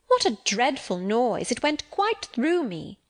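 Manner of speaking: shocked exclamation. Acted. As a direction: recoil at the noise, drawn out and high. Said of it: "exclaimed Abbot".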